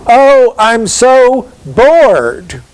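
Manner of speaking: high, slow, drawn-out sigh of boredom; bored rich woman. Acted. Lecturer playing the bored woman, high and slow. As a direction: whine it like a pampered lady with nothing to do. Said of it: "She's just waiting for something to happen".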